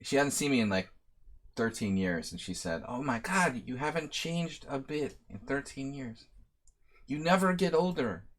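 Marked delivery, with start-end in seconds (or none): 2.9-8.2 rising into a high put-on Serbian lady accent; bad Serbian lady accent. Friend's wife amazed he hasn't aged, bad high Serbian accent. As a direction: marvel at him in a hammed-up Serbian accent. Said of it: "I do a really bad Serbian lady accent".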